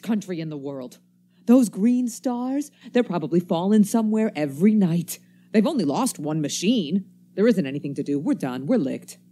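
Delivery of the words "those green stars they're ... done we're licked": bitter outburst. Acted. Stranger raging at the wrecked world, loud and bitter. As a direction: spit out the defeat.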